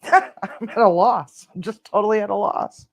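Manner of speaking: laughing whisper. Real, not acted. Laughing at own odd recipe.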